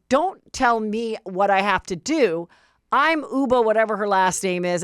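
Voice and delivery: lightly voiced confident retort, near her own voice; a hint of the self-assured cast mate; calm, mildly imitated comeback; mock self-assured retort. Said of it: "And Uba's like".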